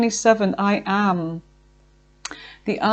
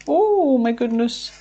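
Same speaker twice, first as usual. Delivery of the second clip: surprised; 3 semitones higher than usual. Real, not acted. Reader startled by cards that flipped over, surprised exclamation.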